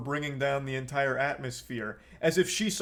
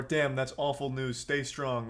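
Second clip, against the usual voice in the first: sincere sympathy; 3 semitones lower, 3 dB quieter than usual. Shown as a demonstration. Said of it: "respond with some level of empathy".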